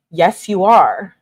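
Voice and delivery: slow, emphatic retort; mock mad. Girlfriend contradicting his denial, mock mad. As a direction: imitate an angry comeback, drawing out each word. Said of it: "She's so mad".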